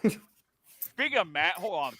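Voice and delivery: talking through cereal; words round a mouthful; mouth full. Real, not acted. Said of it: "don't talk with your mouth full".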